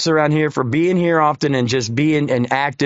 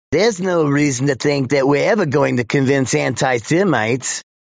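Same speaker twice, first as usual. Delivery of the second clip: put-on older man's voice with elderly Yiddish-inflected accent. Quoting an older man, in an older Jewish man's voice. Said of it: "so I have to do an older Jew voice".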